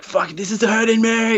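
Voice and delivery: high strained pained voice; victim in pain. Retold or imitated. Mimicking the man in the chair, high mock pain. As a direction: squeak it out like you're being fried. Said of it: "He's like".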